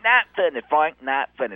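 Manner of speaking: hammed-up annoyed co-host; mock grumpy Terry. Terry scolds Frank on TV, mock grumpy. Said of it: "it's like".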